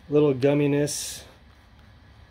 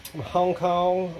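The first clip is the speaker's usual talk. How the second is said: lightly put-on voice, higher and drawn out; 4 semitones higher, slower than usual. Reviewer naming where the shop is, in a playful put-on voice. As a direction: slip into a slow, higher mock voice. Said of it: "I don't know why I did the voice".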